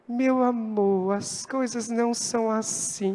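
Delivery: soft, slow, calming wife; gentle wife. Retold or imitated. Wife soothing her fuming pastor husband, soft and slow. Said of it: "Aí ela chega".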